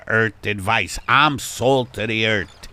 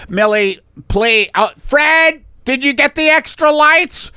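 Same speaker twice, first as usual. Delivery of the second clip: high, raised photographer voice; fussy photographer; 9 dB louder than usual. Acted. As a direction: direct your model from across the studio. Photographer pleads, calls to assistant.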